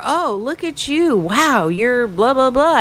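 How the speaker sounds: high, gushing imitation of a fan; gushing mock compliment. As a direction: coo over her like an admirer.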